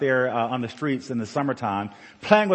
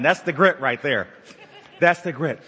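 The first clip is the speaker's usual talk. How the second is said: laughing. Real, not acted.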